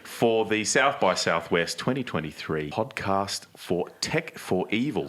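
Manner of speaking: playfully overdone Australian accent; ocker Australian accent. Shown as a demonstration. Host thanking the moustache winner for joining, in a broad Australian accent. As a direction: keep up the broad Aussie accent. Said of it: "my very ochre Australian accent".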